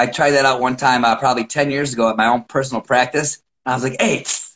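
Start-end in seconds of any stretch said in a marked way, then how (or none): 4.0-4.5 tss sound. Shown as a demonstration. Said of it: "When I make that noise".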